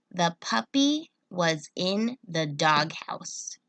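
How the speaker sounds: slow, clear reading aloud; slow repeat. Shown as a demonstration. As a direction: read it again slowly. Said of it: "try this one".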